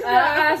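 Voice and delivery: loud mock "ah"; loud film-style "ah"; imitated movie cry. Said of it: "they're like".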